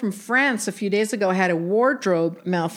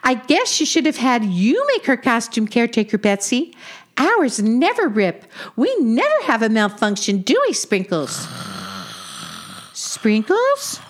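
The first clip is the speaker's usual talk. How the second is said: cartoon tortoise, rising to a high-pitched plea; chatty tortoise, impatient; 6 semitones higher than usual. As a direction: nag a sleepy friend in a playful character voice.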